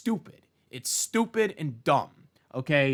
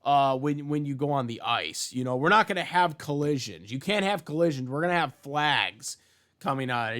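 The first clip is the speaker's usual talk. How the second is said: mocking Olympics; 3 semitones higher, 4 dB louder than usual. Vlogger mocks Olympic officials with a hockey example, sarcastic. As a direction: parody the officials cheerfully. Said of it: "you don't see the Olympics saying".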